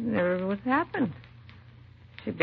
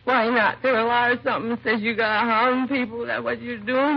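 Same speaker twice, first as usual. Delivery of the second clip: higher, louder bitter accusation; bitter challenge; 5 semitones higher, 3 dB louder than usual. Acted. Drunk mother accusing police of harming people, bitter and raised. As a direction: throw the blame back at them.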